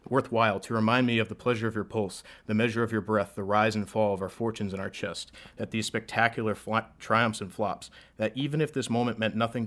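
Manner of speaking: rhythmic slam poetry delivery; spoken word poem. Acted. Poet on stage reciting to an audience, rhythmic spoken word.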